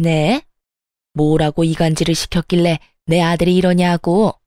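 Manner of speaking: lightly voiced mother-in-law, defensive and indignant; a hint of a mother-in-law snapping back; ranting mother-in-law. Mother-in-law snapping back at her angry son, lightly voiced indignation.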